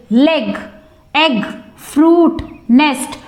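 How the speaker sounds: Leg, egg, fruit, nest, each as one unbroken beat; one-syllable words. Shown as a demonstration. Teacher showing students one-syllable words, each said in one beat. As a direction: say each word in a single syllable, pausing between. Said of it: "are pronounced in one syllable only".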